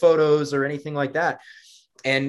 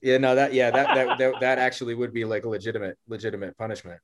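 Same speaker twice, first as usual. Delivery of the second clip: laughing; 3 semitones lower than usual. Real, not acted. Laughing at the punishment idea.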